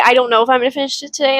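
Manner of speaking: quick, half-hearted hedging; mock hesitant self-quote. Reader mocking her own hesitation, rushed. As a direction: rattle off the doubt quickly. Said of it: "I like how I say".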